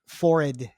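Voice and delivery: "forehead" as "FORR-id"; British "forehead". Shown as a demonstration. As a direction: make "forehead" rhyme with horrid, no h. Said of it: "must rhyme in British".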